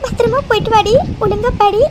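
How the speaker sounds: tearful goodbye with sobs between phrases; crying. Acted. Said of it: "இப்ப எதுக்கு நீ இப்படி அழுதுட்டு இருக்க". (அழுதுகிட்டே விம்மி விம்மி)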